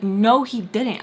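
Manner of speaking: loud, stretched-out contradiction; acted insistent denial; retold angry denial. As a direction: argue back with force, slowly. Acted argument over a lie.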